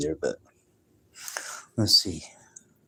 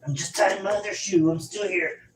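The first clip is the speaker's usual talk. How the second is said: calling from across the room, higher and softer; off-mic, a little raised to carry; far from the mic; 8 semitones higher, 5 dB quieter than usual. Real, not acted. Streamer calls back to chat while tying his shoe, off-mic.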